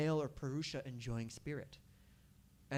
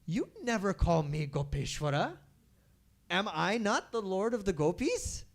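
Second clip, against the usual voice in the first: sassy; 2 semitones higher, 5 dB louder than usual. Acted. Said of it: "a little bit of sass".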